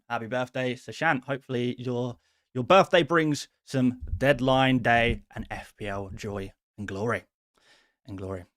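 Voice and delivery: lightly voiced Scottish film star; Sean Connery. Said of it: "did a Sean Connery, uh, close".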